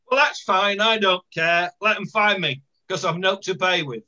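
lightly voiced blunt Hunslet woman; a hint of a defiant local lady refusing the official; lightly acted Hunslet dialect; Hunslet housewife. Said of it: "this lady in Hunslet".

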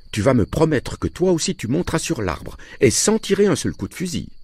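high-pitched, insistent mother; worried wife's high pleading; anxious mother. Acted. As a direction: extract a promise from a husband, voice climbing. Voices the mother in story.

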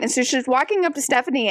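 ordinary talk, nothing marked

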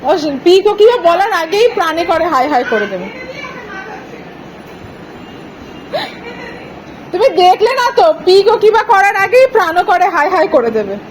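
put-on high, bright sing-song baby talk. Family cooing at the baby to dance, high baby talk. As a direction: coo at the little one in a high voice.

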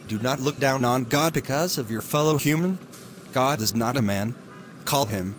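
steady, earnest sermon delivery; radio preaching. Acted. Preacher on the radio urging listeners, earnest sermon voice. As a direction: preach good news to the listeners.

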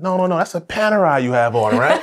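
put-on high, heavy Russian accent; thick Russian accent. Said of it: "a thick Russian accent".

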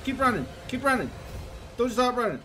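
panicked urging to run; fleeing in a rush, yelling run; being chased. Real, not acted. Fleeing a monster in game.

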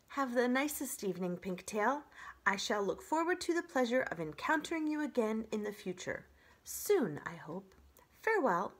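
stiffly over-polite robot farewell; awkward goodbye. Acted. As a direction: bid an overly formal goodbye. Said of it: "With that awkward goodbye".

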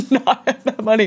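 laughing through the words. Real, not acted. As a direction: repeat it while cracking up.

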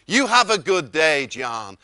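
loud Texan send-off, dropping on the name. Retold or imitated. The host ends the wake-up call, loud Texan impression. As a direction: sign off big, with a hint of Texan.

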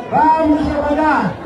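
repete "Vamos devagar" bem pausado; devagar, mais lento. Shown as a demonstration. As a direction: abranda como quem ensina, sílaba a sílaba. (fala devagar para o povo acompanhar)

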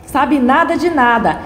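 angry yelling. Acted. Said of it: "ela o interrompe gritando".

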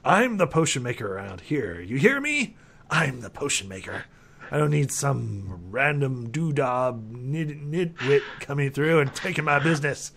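lightly voiced territorial crank; a hint of an unhinged shopkeeper guarding his trade; mildly cranky, with a squawked challenge midway; not-quite-sane alchemist. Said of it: "alchemist who's not quite sane".

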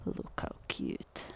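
whispered, slow and soft; hushed aside. Real, not acted. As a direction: breathe it out, slowly. Owner whispering about dog.

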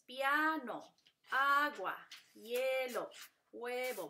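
piano, agua, hielo, huevo said in drawn-out syllables. Shown as a demonstration. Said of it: "cuando lo dividen es". (piano, agua, hielo, huevo separados por sílabas)

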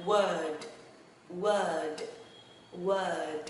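WORD said singly with a clear D ending; final D sound. Shown as a demonstration. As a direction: model "word", closing on a voiced D. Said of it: "âm đuôi khác nhau thôi".

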